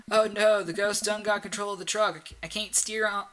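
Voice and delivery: put-on loud cry of alarm from the cab, accent forgotten; trucker in peril. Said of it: "I forgot it's a southern accent".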